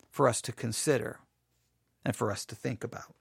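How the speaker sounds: ordinary delivery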